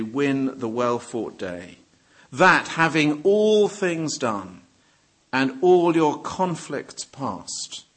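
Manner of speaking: slow, measured reading of a hymn; hymn verse recital. Real, not acted. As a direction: read the verse out slowly, pausing between phrases. Reads hymn verse aloud.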